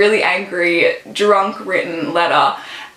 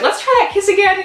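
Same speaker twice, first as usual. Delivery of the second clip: higher, playful flirting; flirty guy voice; 11 semitones higher, faster than usual. Retold or imitated. Dylan asking Zoe to retry the kiss, playfully. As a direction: tease her with a cheeky grin.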